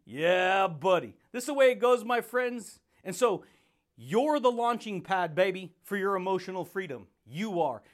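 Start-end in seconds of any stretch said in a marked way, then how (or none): 0.1-2.8 hyped catchphrase. Acted. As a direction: hype the audience up. Shouted catchphrase to viewers.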